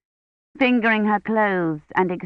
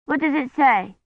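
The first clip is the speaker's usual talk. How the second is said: put-on high curious little girl; a small girl asking eagerly; child's voice; 7 semitones higher than usual. A narrator's reading. Child Agnes asks.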